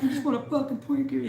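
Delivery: high-pitched imitation of an exasperated craving; hammed-up wail for a snack; mock desperate whine. Imitating the zombie-film character wanting Twinkies, mock desperate whine.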